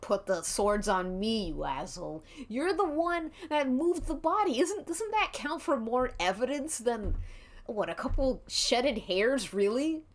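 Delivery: a touch of seething rant, sliding to sulky. Acted. Marchie rants at Dinky, mildly seething, ending sulky. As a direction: lash out, then give up bitterly. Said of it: "Marchie's seething".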